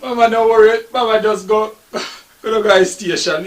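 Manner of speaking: loud, eager push to go; hammed-up eager; eager urging. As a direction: hurry her out the door. Son rushing mother out.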